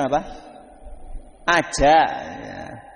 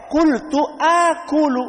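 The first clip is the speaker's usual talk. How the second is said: voicing the hungry boy; 10 semitones higher, 4 dB louder, slower than usual. Boy's reply voiced in story.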